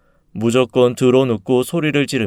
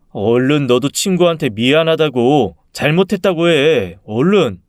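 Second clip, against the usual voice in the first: firm, insistent father's order; urgent parental prodding; 2 semitones higher than usual. Acted. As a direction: press the child to apologize. Father urging child to apologize.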